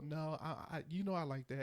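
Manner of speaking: soft, placating husband voice; lightly voiced gentle reassurance; nice reply. Husband answers wife sweetly to keep peace. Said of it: "I be nice about it".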